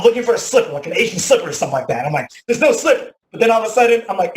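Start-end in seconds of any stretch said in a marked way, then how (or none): 2.5-3.1 frantic. Retold or imitated. Frantic search for slipper.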